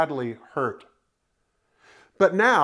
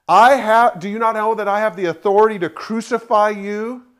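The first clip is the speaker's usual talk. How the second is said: imperious Pilate; 3 semitones higher, 6 dB louder than usual. Retold or imitated. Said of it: "So Pilate said to him".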